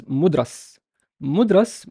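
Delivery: "mudras" as mud-ras, no vowel after the d; "mudras" with a single, undoubled r; demonstrated pronunciation. Shown as a demonstration. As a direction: say "mudras" clearly in two syllables. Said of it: "I would pronounce this as".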